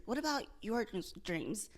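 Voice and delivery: stumbling, repeating the word; stuttering. Real, not acted. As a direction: trip over the words. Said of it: "Sorry, I'm stuttering".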